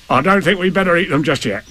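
mildly worried animal voice; Tigger's voice. Acted. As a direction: put it off cautiously. Uneasy Tigger puts Roo off.

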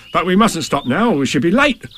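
Tigger's voice. Acted. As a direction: bluster it like a confident braggart. Tigger hurries Roo on.

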